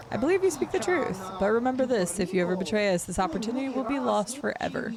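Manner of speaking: lightly voiced ominous stranger warning; secretive bounty hunter. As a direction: read it as a hushed threat from the shadows. Reads NPC dialogue aloud.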